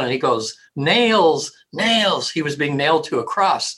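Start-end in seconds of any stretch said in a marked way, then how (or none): 0.7-2.3 anguished cry. Retold or imitated. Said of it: "he's just going".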